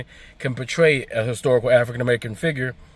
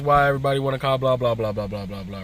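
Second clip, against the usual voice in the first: mocking flustered complainers; 4 semitones higher than usual. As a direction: mimic the outraged critics, dragging out the words. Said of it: "They got a little flustered about it".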